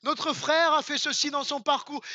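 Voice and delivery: a hint of a pompous host introducing the speaker; lightly voiced grand stage introduction; congress announcer. Preacher mimicking a big congress host introducing pastor. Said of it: "je vais vous la faire comme si on était dans un gros congrès".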